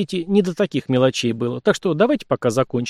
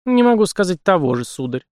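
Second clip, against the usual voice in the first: dry reply; 6 semitones higher than usual. A narrator's reading. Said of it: "сухо отозвалась девица".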